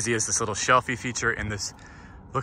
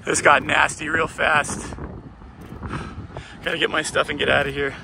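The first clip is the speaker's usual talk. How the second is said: alarmed excitement; 5 semitones higher than usual. Real, not acted. Storm turning dangerous.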